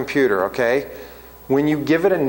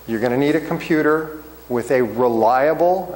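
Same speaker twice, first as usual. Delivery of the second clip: light stress on "reliable", which stays close to the usual voice. Shown as a demonstration. Teacher warning students about their internet connection, light stress on reliable. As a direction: lean a little on "reliable". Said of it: "I wanna stress the word reliable".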